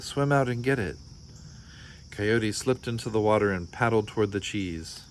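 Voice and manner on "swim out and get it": a bit higher, keen push; eager urging. Acted. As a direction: egg him on brightly. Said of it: "cried Borreguita".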